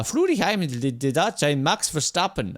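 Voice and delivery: put-on rough stab at a Dutch accent; attempted Dutch accent. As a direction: fumble through a mock Dutch accent. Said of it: "that's a Dutch accent".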